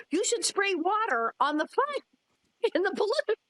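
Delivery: high, slow mock-earnest Pa voice; Pa giving orders. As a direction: voice Pa as a slow, know-it-all newcomer. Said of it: "turned to the fire chief and says".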